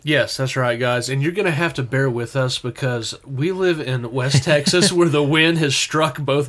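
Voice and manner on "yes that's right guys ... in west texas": nasal from allergies; stuffy, twangy nasal voice; country singer nasal. Real, not acted. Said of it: "country singer nasally".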